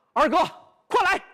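sudden high, loud call for help. Acted. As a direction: yell over your shoulder as a decoy. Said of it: "他随口喊了一声".

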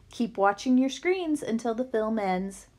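flat robotic loudspeaker voice. Acted. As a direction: speak like a robot. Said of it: "with the robot voice effect".

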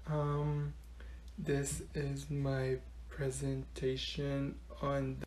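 very soft, slow, low mumble; whispering. Acted. Student still too quiet for the class, whispering. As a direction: keep presenting almost inaudibly. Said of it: "speak louder".

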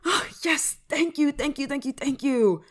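high, gushing excitement; excited thanks tumbling out, easing down in pitch; delighted thanks. Acted. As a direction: burst out with relieved glee. Friend agrees to the test.

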